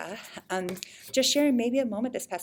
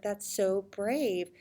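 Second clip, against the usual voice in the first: tender praise; much slower than usual. Retold or imitated. Mother praising daughter.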